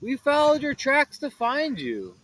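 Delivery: Fred voice. Acted. Fred continues.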